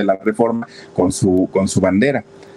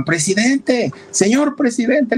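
crowd calling out; 14 semitones higher, slower than usual. Retold or imitated. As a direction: imitate fans calling out to him. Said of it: "pero le gritaban".

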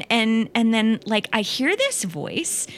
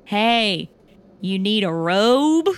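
sweet Texas voice; much slower than usual. Retold or imitated. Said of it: "this sweet Texas voice".

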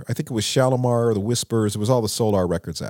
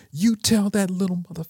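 a higher, heated mock curse down the phone; furious retort; 8 semitones higher than usual. Terry cursing Jelly Bean on the phone, mock angry. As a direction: spit out the insult like a friend's anger being retold. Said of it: "he was so pissed off".

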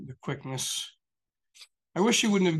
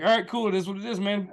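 sarcastic calm; 5 semitones higher, 4 dB louder than usual. Retold or imitated. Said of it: "I was so pissed".

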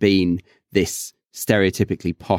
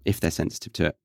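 low, soft afterthought; softly dropped, lower-pitched qualification; quiet aside; 4 semitones lower, 7 dB quieter, much faster than usual. Real, not acted. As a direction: repeat it under your voice, pitched down. Repeats the caveat as an aside.

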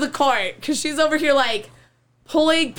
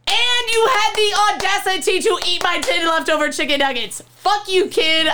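raised, indignant telling-off; retold angry rant; 4 semitones higher than usual. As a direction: replay chewing out a kid over stolen food.

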